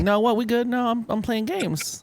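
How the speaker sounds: mock innocent, fumbling cover-up; feigning wakefulness. Caught sleeper telling sister he's fine, feigning wakefulness. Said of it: "play off like you wasn't sleeping".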